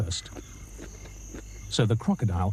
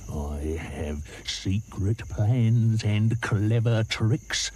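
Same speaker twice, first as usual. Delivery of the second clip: slow, scheming crocodile; sly croc; much slower than usual. Acted. Crocodile teases the elephant, slow and sly. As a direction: drag out the secret. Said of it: "said the crocodile".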